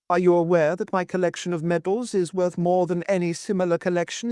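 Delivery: put-on high, querulous old man scolding; an old lord snapping at his wife; suspicious old lord. Old husband suspiciously scolding his wife, high and querulous.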